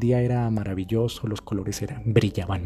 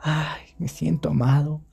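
dreamy lovestruck; 4 semitones higher, slower than usual. Retold or imitated. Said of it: "sentía como esa sensación de".

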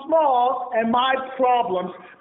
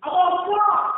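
emphatic answer; 4 semitones higher, slower than usual. Real, not acted. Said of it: "Stop and what?".

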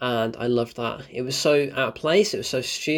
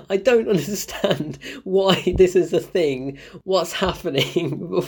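laughing disbelief; 4 semitones higher, slower than usual. Real, not acted. Ranting about Nazi plot.

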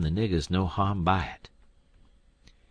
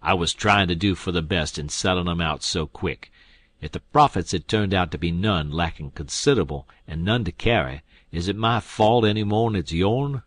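snarling; 5 dB louder than usual. Acted. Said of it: "The King snarls around on him".

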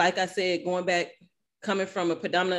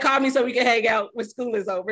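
eager and loud; 4 semitones higher, 6 dB louder than usual. Retold or imitated. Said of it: "I was like".

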